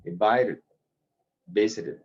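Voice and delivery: invited, visited with the last vowel barely said; swallowed ending. Shown as a demonstration. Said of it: "no lo digo completamente".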